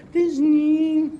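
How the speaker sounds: tiny, very high falsetto lover's plea; monstrous little voice. Acted. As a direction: squeak it out like a lovesick maiden. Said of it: "I'll speak in a monstrous little voice".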